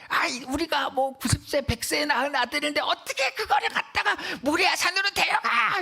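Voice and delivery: high, rising cry of protest, climbing as it goes; imitated anguished outcry. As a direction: wail it like a father refusing the order. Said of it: "이렇게 소리 지를 수밖에".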